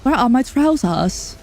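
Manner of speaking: mock British bewilderment; terrible British accent. Shown as a demonstration. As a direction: ask it in a hammed-up British accent. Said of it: "a terrible British accent".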